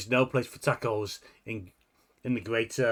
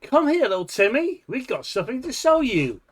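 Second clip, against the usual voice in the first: put-on creepy child lurer; 11 semitones higher, 4 dB louder than usual.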